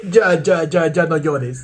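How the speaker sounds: mock German soothing a crying friend, slow and drawn out; hammed-up consoling, half crying; German comforting a friend. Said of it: "¿Cómo lo calma?".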